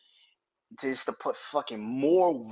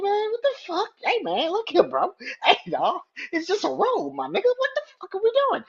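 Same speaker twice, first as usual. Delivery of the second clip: high, loud, choked-up pleading; a fan moved close to tears, crying out at the screen; emotional disbelief; 5 dB louder than usual. Retold or imitated. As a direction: plead with the wrestler, half laughing and half overcome. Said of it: "I was like".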